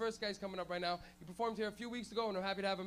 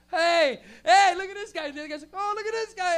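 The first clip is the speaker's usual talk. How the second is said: loud, higher, goofy friendly call; hammed-up stoner cheer; mock stoned delight; 9 semitones higher, 15 dB louder than usual. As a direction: greet a fellow smoker with glee. Stoned drivers greeting.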